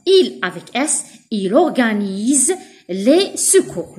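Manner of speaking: very slow word-by-word reading; teacher dictating slowly; slow dictation. Shown as a demonstration. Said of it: "reads example slowly".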